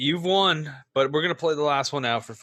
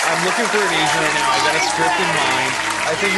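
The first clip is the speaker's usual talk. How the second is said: hammed-up pitch; 7 dB louder than usual. Pitching his movie idea.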